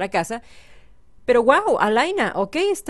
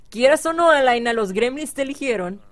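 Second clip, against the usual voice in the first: mock insistence; 2 semitones higher, 4 dB louder than usual. Insisting to rejecting Sim.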